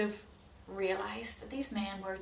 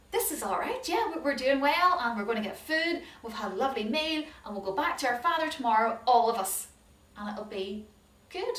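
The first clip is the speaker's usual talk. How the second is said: bright, quicker voice of relieved brothers; cheerful brothers; 2 semitones higher, 5 dB louder than usual. Acted. Brothers telling each other all is well, cheerful. Brothers happy after the meal.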